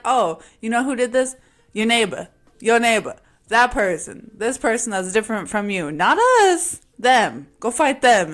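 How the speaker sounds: loud, hammed-up sneering voice of the colonizers; mocking colonizers. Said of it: "And then they're like".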